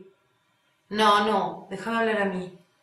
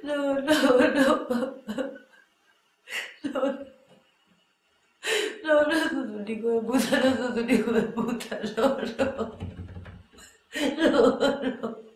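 tearful retraction; 4 semitones higher, slower than usual. Acted. Taking back the insult, crying.

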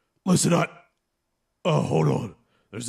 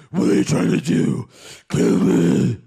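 muffled growl; 3 semitones lower than usual. Acted. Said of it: "can't understand you when you talk like that".

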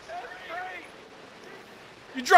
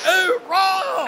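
shout. Real, not acted. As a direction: yell it out. Shouting at game.

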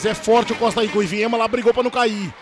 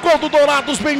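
goal shout. Real, not acted. Goal scored in shootout.

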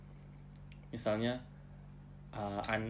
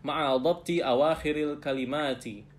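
slow, careful recitation for the class to copy; slow model reading; 2 semitones higher, 4 dB louder, slower than usual. Shown as a demonstration. Teacher reads slowly for students to repeat. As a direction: read it out slowly, word by word. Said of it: "Iqra waktub".

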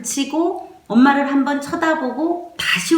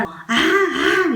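drawn-out imitation of a baby crying; 7 semitones higher, much slower than usual. Shown as a demonstration. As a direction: wail slowly like a small baby. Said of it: "이렇게 울잖아요". (아기 울음 흉내)

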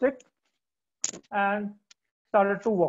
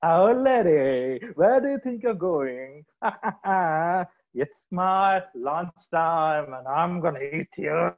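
lightly voiced bear, slow and drawn out; a lazy bear teasing his lunch, slowly; 3 semitones lower, slower than usual. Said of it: "the bear says".

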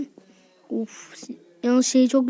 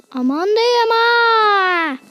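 mock pleading; 6 semitones higher, 6 dB louder, much slower than usual. Begging the sheriff not to shoot.

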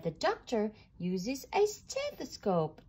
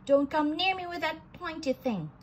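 alarmed protest; 6 semitones higher than usual. Acted. Scared character fends off needle.

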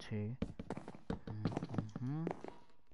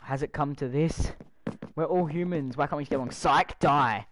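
mock dramatic plea; 2 semitones higher, 6 dB louder than usual. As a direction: fake peace speech, then snap. Mock plea to mob then attack.

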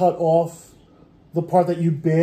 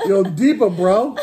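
louder, laughing through it; laughing mock line; 3 semitones higher, 6 dB louder, slower than usual. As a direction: crack up while hamming it.

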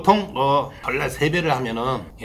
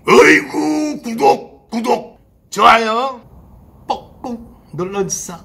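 hammed-up excited plea; 9 semitones higher, 10 dB louder, slower than usual.

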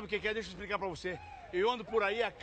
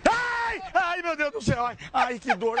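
pain scream; 4 semitones higher, 4 dB louder, slower than usual. Acted. Prank victim screams in pain.

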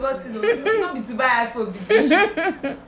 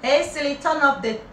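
loud. Shown as a demonstration. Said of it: "so that she can hear you".

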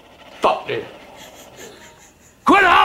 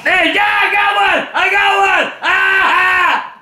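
excited; 4 semitones higher, much slower than usual. Real, not acted. Thinks he got a kill.

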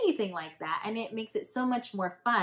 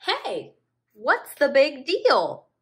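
curious seal voice; 7 semitones higher, 10 dB louder than usual. Acted. Seal voiced in picture book.

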